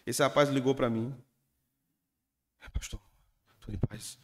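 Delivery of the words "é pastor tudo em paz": put-on hushed, scared whisper of a young man; frightened youth whispering to his pastor; timid nervous whisper. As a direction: barely dare to speak to the pastor.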